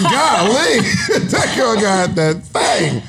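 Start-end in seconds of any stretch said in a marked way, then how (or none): 0.0-1.3 sudden high Golly; surprised exclamation. Real, not acted. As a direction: blurt it out in surprise. Friend coughing, joking reaction.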